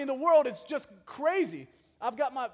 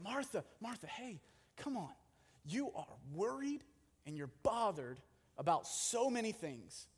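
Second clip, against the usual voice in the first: much softer, hushed calm address; Jesus softly wheels an anxious Martha back in; gentle wheel-in; 2 semitones lower, 9 dB quieter than usual. Retold or imitated. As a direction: quietly reel a panicking friend back in. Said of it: "he has to wheel her in".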